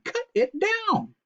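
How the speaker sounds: very high, slow commanding voice; mother's order. Acted. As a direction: order the boy to do it. Belinda orders.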